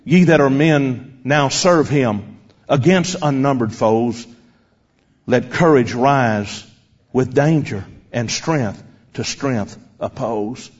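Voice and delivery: slow, stately verse reading with pauses; hymn recitation. Retold or imitated. Preacher reciting the girl's second stanza, slow measured declaiming. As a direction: declaim the hymn line by line, drawing out words.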